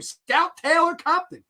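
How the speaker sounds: mock actress reply. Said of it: "actress answers in skit".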